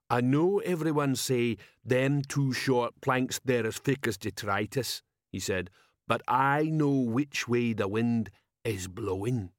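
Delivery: slow-witted troll sergeant. Acted. Troll sergeant asking his commander, dim troll voice.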